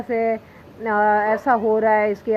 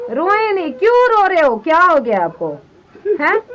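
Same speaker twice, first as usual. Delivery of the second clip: tearful pleading; 7 semitones higher, 5 dB louder than usual. Real, not acted. Daughter comforting crying father.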